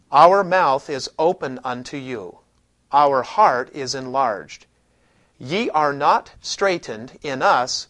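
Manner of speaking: put-on slow, grand old-scripture reading; solemn King James reading. Shown as a demonstration. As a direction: read it like the old King James, slowly and weightily. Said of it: "how would it sound if you lived three hundred fifty years ago".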